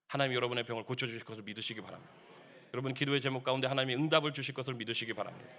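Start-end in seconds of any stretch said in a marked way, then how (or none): none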